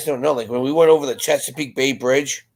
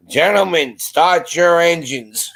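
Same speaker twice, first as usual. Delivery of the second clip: higher, drawn-out announcer call; race starter's call; 4 semitones higher, slower than usual. Retold or imitated. Joker calling out after the chaplain's amen, race announcer style. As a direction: stretch it out like the command opening a race. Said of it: "I had to do it, and I went".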